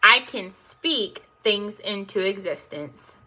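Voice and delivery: slow affirmations with stretched final words; repeat-after-me affirmations. Shown as a demonstration. Coach asks viewers to repeat after her, slow deliberate affirmations. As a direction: lead listeners through each phrase, leaving room to echo.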